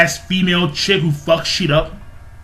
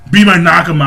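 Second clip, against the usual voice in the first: Luffy's shout; 5 dB louder, faster than usual. Retold or imitated. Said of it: "he's like".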